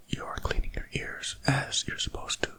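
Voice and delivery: ordinary talk, nothing marked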